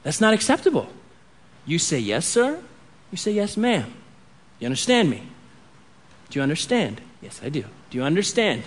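put-on serious talk with your child; a hint of a stern father; quiet stern talk. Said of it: "I pull him aside and I say".

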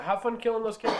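high, loud send-off; loud excited call. Acted. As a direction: shout it cheerfully after him. Calling out to departing character.

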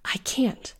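frightened hushed admission; scared whisper. Acted. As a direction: breathe it out in fear. Trapped, panicked reply.

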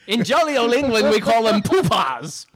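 mock English accent. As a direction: play a silly jolly-old-England Brit. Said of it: "with a cockney accent".

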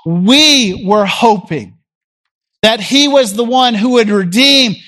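slow, wistful we were hoping; slow mournful sigh of hope; sad longing. Acted. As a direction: let the disappointment sink into it. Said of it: "Can you hear the sadness in their voice?".

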